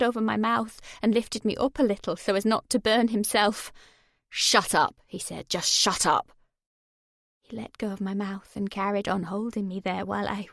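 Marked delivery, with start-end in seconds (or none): 4.3-5.0 low cold command; menacing. Acted. Jay silencing her screams. 5.5-6.3 low cold command; menacing. Acted. Jay silencing her screams.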